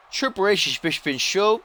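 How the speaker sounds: high-pitched echo of his own slip; mock repeat. Commentator echoing his own fumbled line, high mock repeat.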